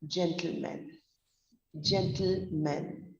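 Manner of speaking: "gentleman" said slowly with a reduced final "mun"; pronunciation demo. Shown as a demonstration. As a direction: say "gentleman" carefully, ending like "m'n". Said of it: "we come to the pronunciation of the word".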